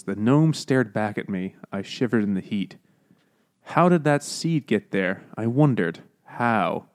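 slow, deliberate book reading; dramatic reading. Acted. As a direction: read it aloud with measured drama. Reads book passage aloud, dramatically.

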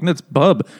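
"Bub" with a short u, not "Bob"; saying Bub. Retold or imitated. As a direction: correct her: "Bub" like "bud", not "Bob". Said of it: "she keeps calling him Bob".

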